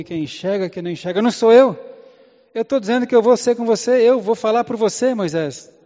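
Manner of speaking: a stern rebuke that rises to a near shout; angry God. Acted. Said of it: "Aí Deus ficou bravo".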